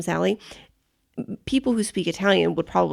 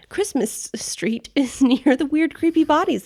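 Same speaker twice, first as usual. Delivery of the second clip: slow, higher, laughing half-whisper; 8 semitones higher than usual. Real, not acted. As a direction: giggle the words out in a half-whisper. Joking about the creepy bodies.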